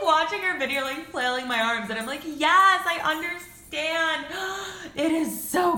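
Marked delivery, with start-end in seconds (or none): 2.2-5.8 excited yes. Retold or imitated. Flailing arms at the video.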